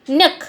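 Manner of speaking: "न्यक" short, flung out in one go; svarita accent. Shown as a demonstration. Teacher showing how svarita is pronounced, thrown "न्यक". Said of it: "जैसे ऐसे वो उच्चारण करते हैं".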